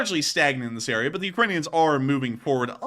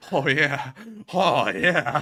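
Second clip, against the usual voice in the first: imitated excited soldier; much slower than usual. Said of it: "He's like".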